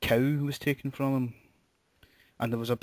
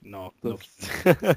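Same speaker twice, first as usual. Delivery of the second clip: put-on Aberdeenshire accent, Keenan pitched up and loud; local accent impression; 6 dB louder, much slower than usual. Local woman repeating the name Keenan, in an Aberdeenshire accent. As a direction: hammer Keenan in broad Doric. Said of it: "Great impression of the accent there".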